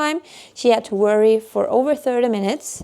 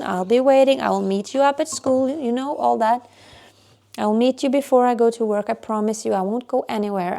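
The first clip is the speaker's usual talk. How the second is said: soothing mom. Retold or imitated. Mother calming crying daughter.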